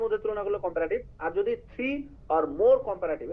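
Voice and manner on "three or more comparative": slowly spelled out. Shown as a demonstration. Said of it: "এই যে দেখেন three or more".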